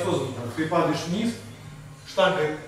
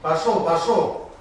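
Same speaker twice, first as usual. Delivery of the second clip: loud, drawn-out push; slow, stretched coaching yell; shouted encouragement; 6 dB louder, slower than usual. Real, not acted. Coach urging lifter mid-set.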